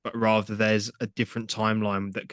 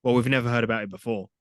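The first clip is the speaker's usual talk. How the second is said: mock surprise; 2 semitones higher, 3 dB louder than usual. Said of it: "It's just".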